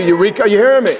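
full-voiced preacher's cry; fired-up pulpit shout; preaching shout. Real, not acted. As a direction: shout it out to the congregation.

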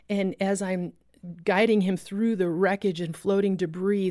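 normal talking voice

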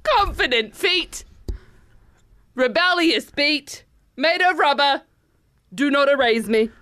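deliberate phrases with weighty pauses; slam poetry. Acted. Host finishing her apology poem to Crocs, slam poetry. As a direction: declaim it line by line, mock-profound. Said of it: "so it's in that style".

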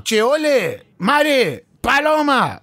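a father fumbling names and shouting the last one; dad calling out names. Retold or imitated. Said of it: "Aí ele vai chamar minha irmã".

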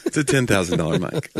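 said through a laugh; amused, laughing retelling; laughing repeat. Real, not acted. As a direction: chuckle while repeating the line.

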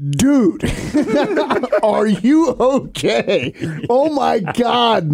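slow, drawn-out mock alarm; retold sudden concern. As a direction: stretch out the worried words, acting shocked. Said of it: "the whole tone of the text string turns".

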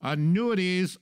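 Annuities announced high and loud like a grand reveal; big reveal word. Acted. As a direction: land the word Annuities as a punchline. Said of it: "Ready for the big word?".

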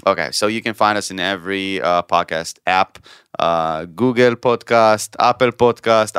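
slow English in an Israeli accent. Shown as a demonstration. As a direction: read the app names with an Israeli accent. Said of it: "in Israeli accent".

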